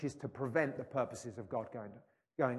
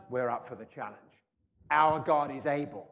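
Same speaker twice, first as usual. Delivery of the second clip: bold reply; 7 dB louder than usual. Acted. Elijah calling out his bold answer. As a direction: call it out boldly to the prophets.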